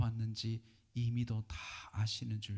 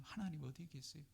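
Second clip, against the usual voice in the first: anguished plea; 5 semitones higher, 11 dB quieter than usual. Pretend. Prayer voiced as a lament.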